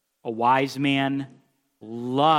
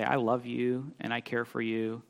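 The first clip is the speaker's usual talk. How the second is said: much softer, tender delivery; gentle, soft tone; 3 semitones lower, 8 dB quieter than usual. Shown as a demonstration. Preacher showing how to speak truth gently, soft. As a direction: say the truth kindly, almost hushed. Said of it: "in this particular tone of voice right here".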